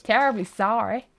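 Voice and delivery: put-on failed accent that slips into American; botched put-on accent. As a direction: apologise in a badly faked accent. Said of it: "That was American".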